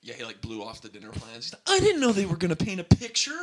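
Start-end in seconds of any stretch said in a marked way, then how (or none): 1.7-3.3 mock whiny apostle. Voicing the absent apostle.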